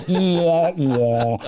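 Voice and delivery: put-on whiny baby wah sounds; baby crying imitation. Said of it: "You remember that sound?".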